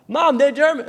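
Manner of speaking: high, emphatic announcement; acted excited outburst; excited insistence. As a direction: insist on the amazing news. Story mother's excited news.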